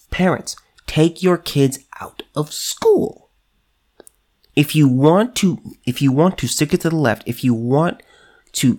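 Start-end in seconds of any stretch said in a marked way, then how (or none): 0.1-3.3 slow, hushed whisper to parents; secretive whispered appeal; urgent whisper. Real, not acted. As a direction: lean in and whisper the call to act. Urging parents, sudden whisper.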